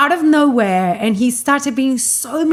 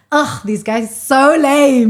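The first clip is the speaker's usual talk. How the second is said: slow scornful ugh, a bit louder; mock disgust; 3 semitones higher, 4 dB louder than usual. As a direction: drag it out like he's pathetic. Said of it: "and I was like".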